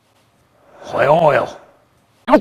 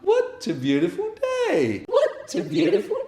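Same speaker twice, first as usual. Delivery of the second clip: squeaky high cheerful chant; high bright chant; very high sing-song. Pretend.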